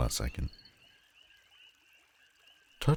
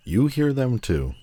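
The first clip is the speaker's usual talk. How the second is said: higher, louder, intense; fervent; 9 semitones higher, 5 dB louder than usual. Acted. Villain urging the hero to join her, fervent. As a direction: pull him in with zeal.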